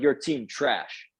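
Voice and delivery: mocking the French Canadian player's slow broken English. French Canadian player dismissing the team owner's roster, slow, accented. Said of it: "he has broken English".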